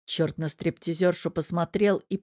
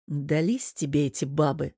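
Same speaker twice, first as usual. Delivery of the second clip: grumbling; 3 semitones lower than usual. Acted. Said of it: "проворчал чёрт".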